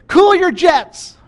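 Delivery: high, loud, slow mock parent; hammed-up parent telling kids to calm down; parent scolding kids. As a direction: stretch out cool like a parent. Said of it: "told your kids".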